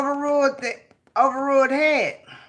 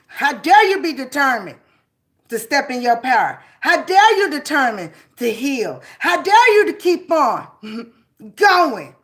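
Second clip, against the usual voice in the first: rising, louder, slowing indignant challenge; indignant how dare you; 5 dB louder than usual. Acted. Speaking back to the anger, rising indignant outcry.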